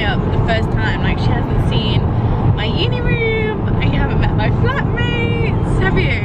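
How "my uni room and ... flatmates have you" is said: excited. Real, not acted. Excitedly telling mum in car.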